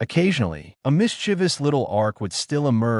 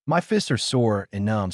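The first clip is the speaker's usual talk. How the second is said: whiny sob; 5 semitones higher than usual. Acted. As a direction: pout about sore fists.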